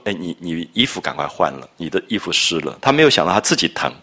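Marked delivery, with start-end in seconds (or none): 0.1-2.8 softer, caring elder sister's nudge; quiet concerned urging to change clothes. A narrator's reading. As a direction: fuss over him gently like a mother. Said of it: "她还是关心说".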